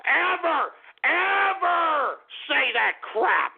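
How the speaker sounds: rising to a crying shout; angry shout. Real, not acted. Angry denial.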